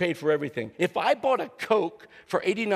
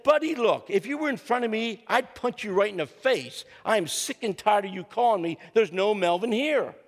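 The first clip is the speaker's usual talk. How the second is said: raised, higher pitched mock-angry threat down the phone; 4 semitones higher than usual. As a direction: play the fed-up stranger ready to punch someone. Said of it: "that is anger right there".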